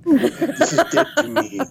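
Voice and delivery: high, slow, laughing ogre grunt. Retold or imitated. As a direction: play a cranky monster, amused. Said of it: "That's your ogre impression".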